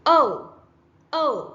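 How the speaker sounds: ഓ said as a long, rounded o vowel; long o sound. Shown as a demonstration. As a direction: hold the ഓ open and round. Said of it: "ഓ sound ആണിത്". (നീട്ടിയ ഓ ശബ്ദം)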